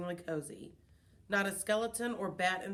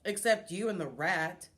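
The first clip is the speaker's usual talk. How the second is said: grumpy, raised growl; 5 dB louder than usual. Acted. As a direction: growl it like a grouch. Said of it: "Bert Brisbane growled".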